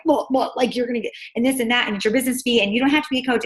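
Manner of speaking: a touch of nervous over-explaining; mock word-vomiting. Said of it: "being like".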